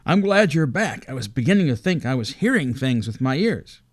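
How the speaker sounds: anxious polar bear, glad his friend is back. Acted. Polar bear Drusus speaks.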